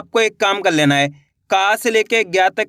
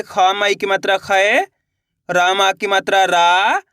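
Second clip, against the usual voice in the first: slow, deliberate spelling of खै; slower than usual. Shown as a demonstration. Teacher spelling out syllables slowly for pupils. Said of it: "खा का उच्चारण कैसे करेंगे".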